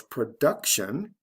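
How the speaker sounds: "production" stressed pro-DUC-tion; stress before the ending. Shown as a demonstration. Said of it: "the stress is right before the T I O N ending".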